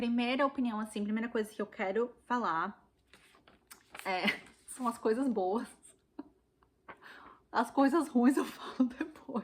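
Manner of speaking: loud speech broken by nervous laughter. Starting to give her opinion of Les Misérables after summarizing it: nervous laughter. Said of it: "eu tô rindo de nervoso".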